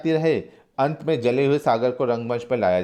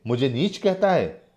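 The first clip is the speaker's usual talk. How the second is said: offended angry retort; mildly raised acted anger; 2 semitones higher than usual. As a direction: bristle at the insult. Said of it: "गुस्से से".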